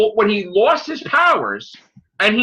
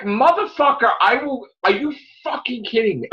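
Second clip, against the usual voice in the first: angry rant. Retold or imitated. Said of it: "And I'm like".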